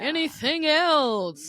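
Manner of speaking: drawn-out, slow server voice; put-on server voice. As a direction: play a customer-service character, stretching the words out. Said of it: "That was a pretty good voice".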